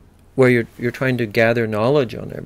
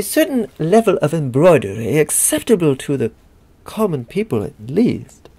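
lightly voiced British snob; fussy British etiquette, a touch higher; mock British accent; 3 semitones higher than usual. Lecturer parodying rules for setting the table, light British snob accent.

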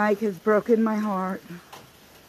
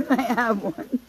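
laughing; 3 semitones higher, slower than usual. Real, not acted. Repeats it while laughing.

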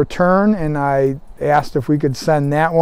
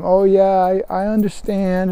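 lightly imitated Southern accent, higher pitch; 4 semitones higher, 3 dB quieter than usual. Understanding elderly customer to the caller, in a Southern accent. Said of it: "in her southern accent".

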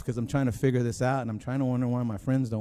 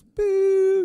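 sudden high, loud mock jump-scare yelp; startled boo; 9 dB louder than usual. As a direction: burst out like you've been spooked. Mimics the shock of eyes opening.

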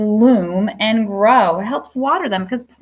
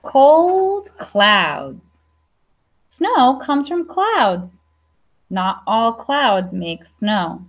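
slow, careful read-aloud of a picture book; reading to children; much slower than usual. Acted. Teacher reading a snow book to her class, slow and clear. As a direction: read each line slowly for little listeners.

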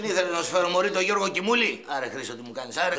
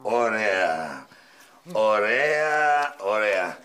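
sarcastic; 10 semitones lower, much slower than usual. Real, not acted. Director sarcastic after failed take.

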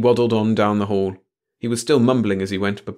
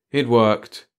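usual speaking voice

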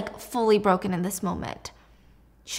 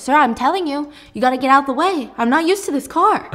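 fake-innocent excuse; 5 semitones higher, 5 dB louder than usual. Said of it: "And he's like".

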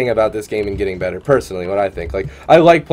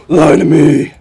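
mock Aussie accent; 4 semitones higher, 8 dB louder, slower than usual. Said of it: "say that in an Aussie accent".

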